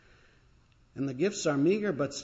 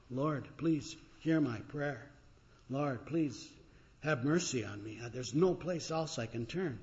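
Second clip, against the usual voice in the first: quiet prayer; 5 dB quieter than usual. Acted. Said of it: "And so you cry out".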